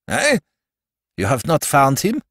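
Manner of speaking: worried count pressing for news; a touch of anxiety; anxious. A narrator's reading. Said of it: "asked the Count anxiously".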